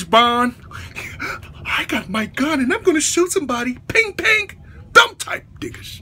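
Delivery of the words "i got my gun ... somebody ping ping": movie villain impression. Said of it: "the gay villains that go after Rambo".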